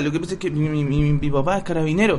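lightly voiced guilty man making up an undercover story; mock earnest excuse. Podcaster mocks a caught man's lame excuse, half-laughing.

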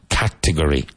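Category with the stress on CAT; stress on first syllable. Shown as a demonstration. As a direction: punch the opening syllable of Category, let the rest fall. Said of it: "Emphasis on the first syllable".

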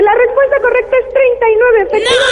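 excited reveal. Real, not acted. Host reveals the quiz answer.

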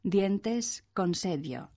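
g and j of gentes, consejo as dy; early gentes, consejo. Shown as a demonstration. First pronunciation of gentes and consejo, D joined with Y. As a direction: slowly show gentes and consejo with a dy sound. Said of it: "se pronunciaron en un primer momento".

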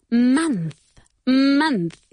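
"month" with the o said like an a, munth. Shown as a demonstration. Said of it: "Esta O se pronuncia como una A".

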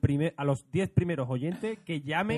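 slow, loud radio offer; radio promo voice. Pretend. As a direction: hype it like a radio contest. Mock radio contest offer.

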